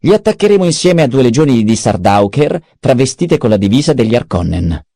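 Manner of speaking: lightly voiced schemer. Adviser briefing the baron on the duke's possible escape, lightly voiced. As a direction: lay out the options with lifted pitch. Narrator voices Peter's plan.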